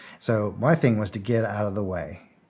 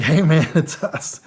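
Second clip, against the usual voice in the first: laughing relief; 5 semitones higher, 4 dB louder, slower than usual. Retold or imitated. Relieved greeting to friend.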